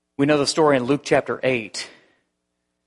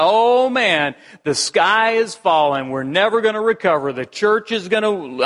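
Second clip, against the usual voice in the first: mock panic; 3 semitones higher than usual. Acts out panicking losing-party supporter.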